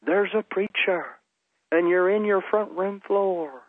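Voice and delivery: high, slow preacher impression; slow, high-pitched prophetic pronouncement; Benny Hinn. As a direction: draw it out high, like a televangelist addressing the camera. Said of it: "he looks at the camera, and he goes".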